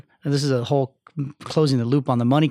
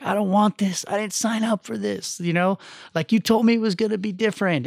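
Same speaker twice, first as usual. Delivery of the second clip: retold crying wife; 7 semitones higher than usual. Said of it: "She calls me and she's fucking crying".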